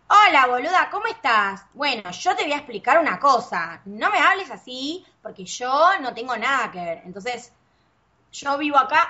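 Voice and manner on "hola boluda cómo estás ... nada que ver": put-on Argentine accent. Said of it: "los argentinos hablan".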